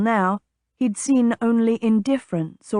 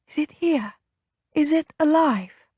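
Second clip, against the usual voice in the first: eager; 7 semitones higher than usual. A narrator's reading. Blind woman eager at birth.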